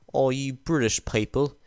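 put-on horrible British accent. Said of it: "that was a horrible British accent".

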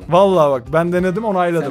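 talking with gum in mouth; chewing while speaking; mouth full. Real, not acted. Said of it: "Sen ağzın dolu olmasına alışıksın".

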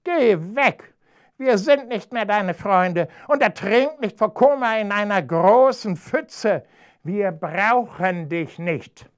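high, loud rejecting shout; angry chicks. Acted. Chicks chase Ham off, loud and high. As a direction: drive him away.

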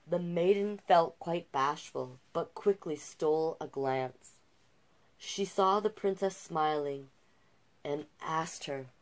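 gentle rhyming read-aloud; storyteller voice for a picture book; storybook narration. A narrator's reading. Reads the fairy tale aloud.

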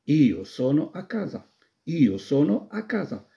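slow, deliberate Italian repeated; slow model sentence. Shown as a demonstration. Teacher repeats the answer slowly for students. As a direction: say it slowly twice for the class. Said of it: "المنزل اللي هو كازا".

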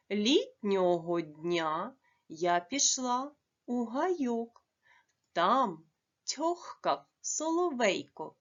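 slow, measured dictation reading; text read aloud. Acted. Teacher dictating a short text to pupils, slow and even. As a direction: read the passage slowly for pupils to copy.

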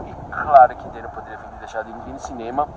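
stammering, mouth trembling with cold; stuttering from cold. Real, not acted. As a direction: teeth chattering, words stumbling. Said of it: "tô gaguejando, porque minha boca tá tremendo de frio".

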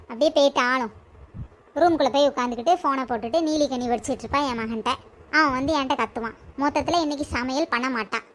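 resigned lament. Acted. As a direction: sigh over her fate.

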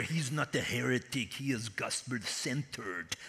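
low, soft aside to a colleague; a quiet word of reassurance beside the speaker; hushed reassurance. Retold or imitated. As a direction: murmur it so only he hears. Quoting Mark Pion reassuring.

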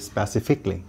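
স্পেসিফিকলি with a short ikli ending; স্পেসিফিকলি, ending on a clipped -kli; correct pronunciation. Shown as a demonstration. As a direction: say স্পেসিফিকলি as spe-si-fik-li, no kyali. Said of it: "এটার সঠিক উচ্চারণ হবে".

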